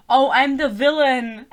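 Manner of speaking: slow, drawn-out mock villain line; mocking Rhys. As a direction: quote it as cringey melodrama. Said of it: "That was so cringe".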